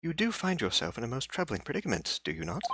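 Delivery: put-on a faint, half-hearted British accent. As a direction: try a posh British accent and slip. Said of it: "I apparently can't read in a British accent either".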